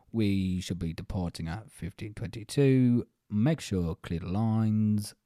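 slow, low, breathy monotone mutter; monotone announcer. Retold or imitated. Host imitating a bored tube announcer, slow flat drone. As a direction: drone it with no life at all.

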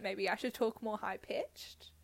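soft unvoiced whisper. Real, not acted. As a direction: whisper it as an aside. Joking aside, whispered.

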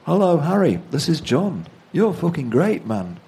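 high, lively caller's voice, dropping at the end; a famous singer. Retold or imitated. The singer phones Harry at one in the morning, imitated high and keen. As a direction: imitate an enthusiastic late-night phone caller. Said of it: "it was indeed the singer".

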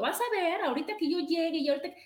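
half-hearted combative rush; mock fighting-cock bluster. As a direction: play the hothead ready for a fight, lightly. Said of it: "como gallito de pelea diciendo".

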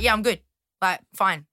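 mildly curt retold brush-off; rude. Newcomer not asking how they are, mildly rude. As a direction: close the exchange without asking back. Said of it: "then it's rude 'cause I'm like".

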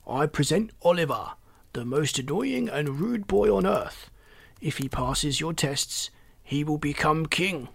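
lightly grand herald's announcement; formal presentation. A narrator's reading. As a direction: present him with measured ceremony. Reginald presents Oliver to toads.

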